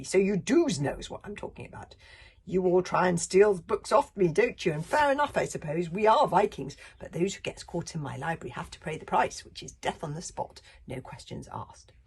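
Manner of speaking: loud, odd villain voice; gloating librarian. Acted. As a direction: gloat over the catch.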